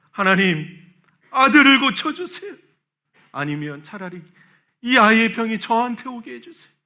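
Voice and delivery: loud pleading cry to God, retold; crying out in prayer. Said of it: "하나님을 큰 소리로 불렀어요".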